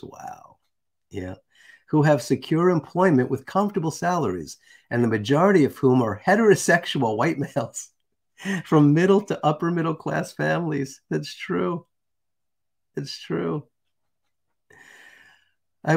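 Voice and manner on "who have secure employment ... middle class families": emphatic read-out of a written text; deliberate oratorical reading; reading aloud. Acted. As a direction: read it out with lifted, stressed key words. Reads a quoted text aloud.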